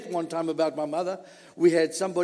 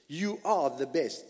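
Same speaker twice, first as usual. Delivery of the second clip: tender praise. Shown as a demonstration. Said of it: "go to your parents today and say".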